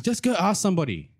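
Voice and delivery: high, exasperated mum voice; mum going Super Saiyan. Retold or imitated. Mum sending her kid off to ask, exasperated. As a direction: imitate a fed-up mother's order. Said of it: "she went, like, Super Saiyan on me".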